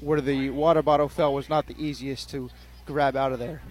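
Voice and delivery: out of breath. Real, not acted. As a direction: still winded, breathing heavily. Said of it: "I apologize if you hear some heavy breathing".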